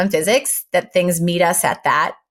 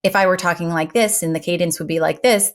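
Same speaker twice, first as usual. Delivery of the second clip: boring delivery; faster than usual. Shown as a demonstration. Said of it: "then the delivery is very boring".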